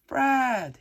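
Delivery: loud, high joyful shout; crying out. A narrator's reading. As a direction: shout his name in delight. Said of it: "he cries".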